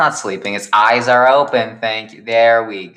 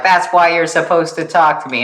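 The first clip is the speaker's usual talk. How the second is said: mock indignant; 8 semitones higher, 4 dB louder than usual. Josh voiced, insisting.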